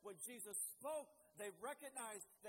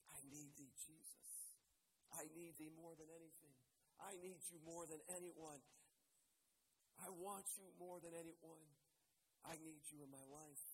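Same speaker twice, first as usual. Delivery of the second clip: quiet prayer; 5 dB quieter than usual. Real, not acted. Quiet prayer after hymn.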